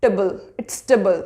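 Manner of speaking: table said short as tuh-bul; quick tuh-bul, not tay-bul; reduced table. Shown as a demonstration. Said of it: "it's not table".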